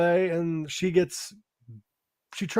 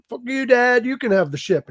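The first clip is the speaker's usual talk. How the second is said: mock angry outburst; 6 semitones higher, 4 dB louder than usual. Son storming off after argument.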